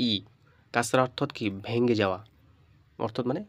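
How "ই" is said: "ই" as a clear ee vowel; ই-এর উচ্চারণ. Shown as a demonstration. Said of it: "ই এর মতো হবে". ("ই" স্পষ্ট ই স্বরে)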